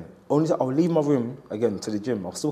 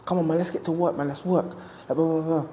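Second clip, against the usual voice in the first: retold pep talk; 6 semitones higher than usual. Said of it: "being so uplifting to everyone".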